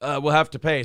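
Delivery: talking with hiccups; hiccuping. Real, not acted. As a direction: hiccups breaking the words. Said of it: "I have the hiccups".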